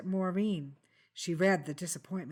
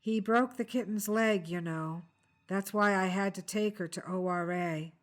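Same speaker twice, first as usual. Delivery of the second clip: flat robotic monotone. Acted. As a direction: speak like a robot, no feeling. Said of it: "speaking in a robotic voice".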